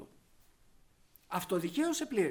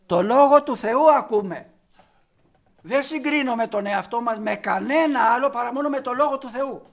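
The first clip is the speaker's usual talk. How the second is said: full-force preaching; 2 semitones higher, 8 dB louder than usual. Acted. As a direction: hammer the point home to the congregation.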